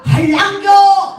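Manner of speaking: loud, high, drawn-out Gyeongsang question; Gyeongsang dialect. Acted. Strange man suddenly asks mother-in-law, loud Gyeongsang accent. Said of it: "느닷없이 남자가".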